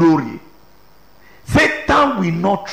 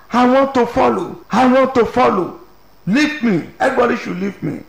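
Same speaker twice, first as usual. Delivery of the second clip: imitated wailing; 5 semitones higher than usual. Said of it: "one was crying and crying and crying".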